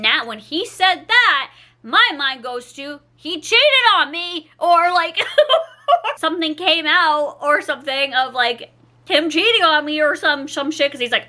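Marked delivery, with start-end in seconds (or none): 4.6-8.3 nervous laugh. Real, not acted. Nervous laugh imagining cheating.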